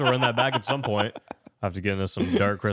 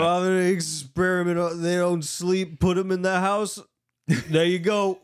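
hammed-up Liam Neeson; 7 semitones higher, 3 dB louder than usual. Liam Neeson explaining the sleep experiment, hammed-up imitation. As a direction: send up the actor with stretched mock lines. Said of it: "'cause Liam Neeson just sitting there".

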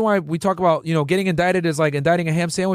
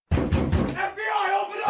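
grave federal agent; 13 semitones higher, 5 dB quieter, slower than usual. Retold or imitated. Agents raiding at dawn.

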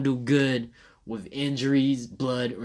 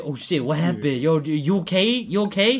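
alarmed; 3 semitones higher, 3 dB louder than usual. Retold or imitated. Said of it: "And then I was like".

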